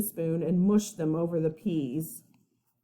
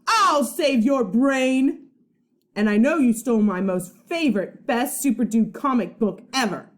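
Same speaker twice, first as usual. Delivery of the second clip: put-on accusing kid; 3 semitones higher, 5 dB louder than usual. Angry boy accusing his friend of stealing, loud. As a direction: hurl the charge at your friend. Eugene accuses Charlie, quarrel.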